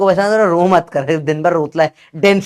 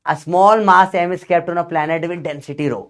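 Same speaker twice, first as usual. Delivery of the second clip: slow careful reading; much slower than usual. Shown as a demonstration. Teacher reading the question to students, very slow. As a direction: read each word out very slowly. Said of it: "देखो ध्यान से".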